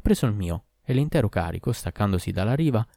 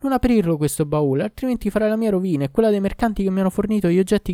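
put-on higher, urgent pleading young woman; pleading girl; 8 semitones higher than usual. A narrator's reading. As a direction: talk him out of it, fast and anxious. (la fanciulla supplica la guardia, voce acuta e agitata)

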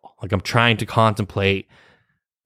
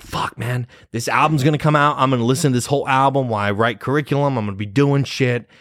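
higher-pitched retelling of excited self; eager inner monologue, pitched up; hyped-up anticipation; 5 semitones higher than usual. Retold or imitated. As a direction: act out being pumped for a release. Acting out anticipation of album release.

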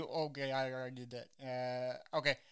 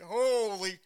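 startled exclamation; 5 semitones higher, 6 dB louder than usual. Retold or imitated. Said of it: "I'm like".

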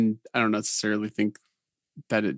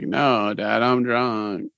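put-on drunk girl voice; much slower than usual. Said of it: "it's my drunk girl voice".

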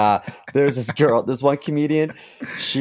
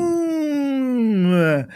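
high boom shout; 12 semitones higher than usual. Acted. Echo exclamation.

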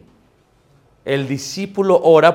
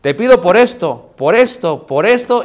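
loud, higher, mock repetitive praying; rote mealtime prayer; 5 semitones higher, 6 dB louder than usual. Preacher imitating a parent praying over food, mock rote and loud. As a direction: reel off each request in mock routine. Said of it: "cuando oramos por los alimentos".

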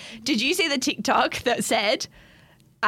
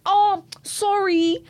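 mock sheepish parents; 6 semitones higher, much slower than usual. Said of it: "And then the parents like".

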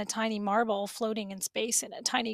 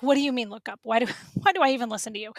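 arguing back; 4 dB louder, much faster than usual. Retold or imitated. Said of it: "I'm always arguing".

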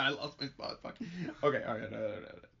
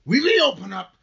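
loud, higher stage voice; theatrical declaiming; 4 semitones higher, 10 dB louder than usual. Acted. Minister appeals to Rebecca about their troubles, declaiming. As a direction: declaim it grandly, swelling upward. Acted line of the play.

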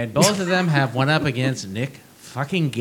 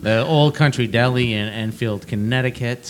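unenthusiastic ring announcer; 3 dB louder than usual. Acted. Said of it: "your most unenthusiastic ring announcer voice".

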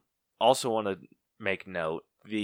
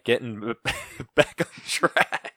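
giggling through it, higher and louder; can't keep a straight face; laughing; 10 semitones higher, 3 dB louder than usual. Real, not acted. Trying to steer the podcast back, breaking into laughter. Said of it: "yeah, getting back on track".

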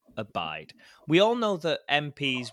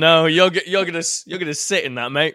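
loud; 4 semitones higher, 8 dB louder than usual. Real, not acted. Refusing to edit it out.

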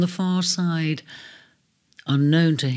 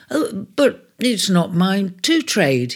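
honest; 3 semitones higher than usual. Acted. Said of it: "he said honestly".

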